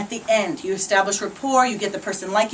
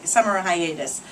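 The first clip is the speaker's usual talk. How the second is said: Boston accent; 3 semitones lower than usual. Real, not acted. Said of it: "That's my Boston accent".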